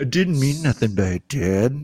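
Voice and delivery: slow speech through pursed lips, mouth barely open. Showing the best way to do a Jeffrey Dahmer impression. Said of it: "I love that part".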